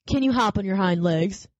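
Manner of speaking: lightly voiced wild rabbit challenge; challenging wild rabbit. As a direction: test him with the question.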